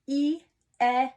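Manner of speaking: short e sound sounded out high; vowel sound demo. Shown as a demonstration. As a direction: say the short e like a teacher. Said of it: "let's do a quick review".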